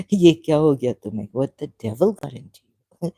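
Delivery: a quick, loud scold aimed at herself; mock self-scolding. Scolding herself after the rude remark, quick and loud. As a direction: tell yourself off, half laughing. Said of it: "I laughed at myself".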